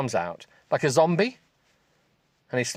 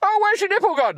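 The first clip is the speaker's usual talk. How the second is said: giggling; 3 dB louder than usual. Real, not acted. Laughing high mock narration.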